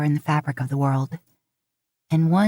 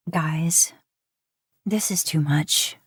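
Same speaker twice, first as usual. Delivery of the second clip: tearful whisper, slowing down; barely able to get the words out; overwhelmed, near-silent whisper to friends; choked whisper; slower than usual. Acted. Overwhelmed at her birthday party.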